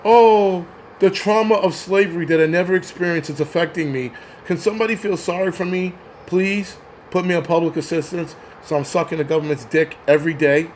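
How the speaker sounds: hammed-up pity plea; mock self-pity. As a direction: lay the victim act on thick. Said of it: "Stop blaming".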